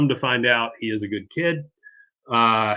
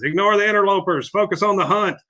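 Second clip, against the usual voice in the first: eager urging father; 8 semitones higher, 5 dB louder, faster than usual. Retold or imitated. Father urging son to shoot panda.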